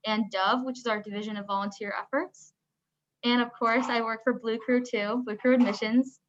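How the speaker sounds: muffled through a mask; talking behind a face mask. Real, not acted. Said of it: "sorry, I have my mask on".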